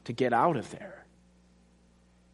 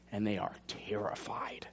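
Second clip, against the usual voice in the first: hushed; 5 semitones lower, 10 dB quieter than usual. Real, not acted. Dramatic hushed point.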